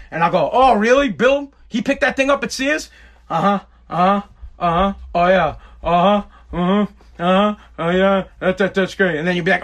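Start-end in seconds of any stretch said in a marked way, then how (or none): 0.5-2.9 feigned interested question, a bit raised; pretending to care about Bill's errand; mock interest. Shown as a demonstration. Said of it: "I rephrase it with, like, a question". 3.3-9.2 mumbled automatic uh-huhs; nodding along without hearing a word; tuning out his wife with uh-huhs; fake listening. Shown as a demonstration. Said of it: "same thing ... I do to my wife".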